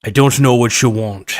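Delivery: put-on light Sean Connery accent reading a movie line; hint of Sean Connery drama; Sean Connery impression. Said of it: "so I'm doing this as, as Sean Connery".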